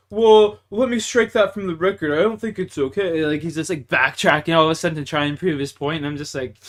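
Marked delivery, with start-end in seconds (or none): 0.1-3.3 mock backpedaling. Imitating brother-in-law backtracking.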